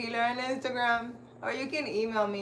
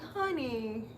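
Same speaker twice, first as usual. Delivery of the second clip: put-on sweet old lady; 5 dB quieter than usual. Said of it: "She's like".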